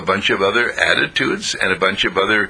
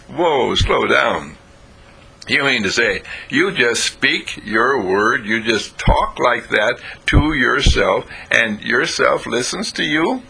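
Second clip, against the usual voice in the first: 1 confused friend; slower than usual. Acted. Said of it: "His buddy was kinda confused".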